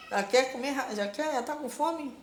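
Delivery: pet talk, lifted and fond; talking to the cat. Real, not acted. Talking to the hungry cat Caju, doting pet talk. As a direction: coo at the hungry kitten.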